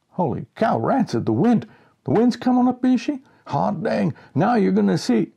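high, loud, thrilled yelling; excited shouting. A narrator's reading. Boy and Rancid cry out as the storm wind rises, excited. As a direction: whoop it out as the wind hits. Narrator yells, Rancid exults.

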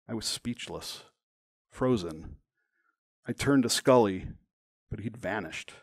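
measured, dramatic memoir reading; deliberate narration with weight on key words; story narration. A narrator's reading. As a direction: read your story aloud, phrase by phrase. Reads own story aloud.

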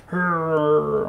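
mock angry growl like Hulk; hammed-up monster grumble. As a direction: growl out a long playful "hurr". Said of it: "I'm Hulk mad".

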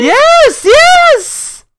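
very high, loud squeal; thrilled confirmation. Real, not acted. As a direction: shriek it in triumph. Confirming the donation total.

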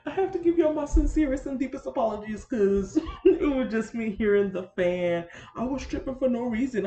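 giggling at your own silliness; real laughing apology to viewers. Real, not acted. Laughing at her own mistake.

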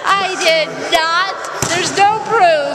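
slow mock denial. Real, not acted. Denying the snort, drawn out.

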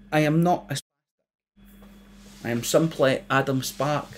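careful proper voice, a touch prim; a hint of a posh correct voice. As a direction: speak carefully and properly to the thickos. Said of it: "in the proper voice that Judy taught me".

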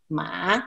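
Mandarin third tone on "ma"; tone three. Shown as a demonstration. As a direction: sink "ma" to the bottom of the voice. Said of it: "from tone one to tone four".

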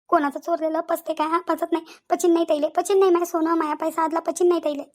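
acted lament turning to curses; tearful cursing. Robbed woman cursing the thieves, tearful lament. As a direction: bewail the loss and curse the thieves. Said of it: "तुम्ही एवढ्या काय रडू राहिल्या".

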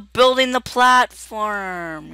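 high-pitched, indignant outburst; indignant protest. Real, not acted. Gamer scolding friend mid-building, indignant protest.

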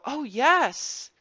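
put-on a child suddenly sorry for the puppy; dismayed child. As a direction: gasp it as a child realising the hurt. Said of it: "healthy child will go".

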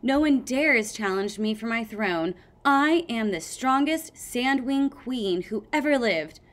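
hammed-up queen voice; mock queen boast. Sunny playing queen.

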